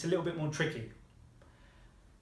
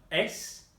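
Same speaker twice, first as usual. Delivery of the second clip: "es" pitched higher, rising as a question; rising question word; 4 semitones higher than usual. Shown as a demonstration. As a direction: lift the voice on "es". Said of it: "You rise up on that question word".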